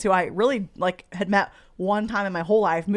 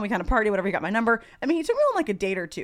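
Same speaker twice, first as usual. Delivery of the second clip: normal talking voice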